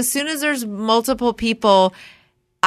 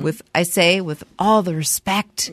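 political sing-song voice; 5 semitones lower than usual. Pretend. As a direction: read the names like a politician at a podium. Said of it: "in my political sing-song voice".

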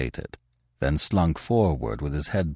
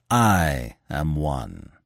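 very slow, lower, composed statement; calm and unhurried, each word drawn out; 4 semitones lower, much slower than usual. A narrator's reading. Masked stranger identifies himself to three men, calmly. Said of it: "repeated the stranger calmly".

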